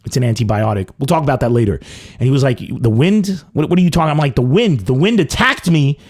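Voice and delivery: normal talking voice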